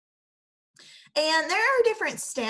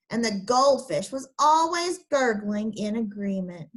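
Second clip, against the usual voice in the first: ordinary delivery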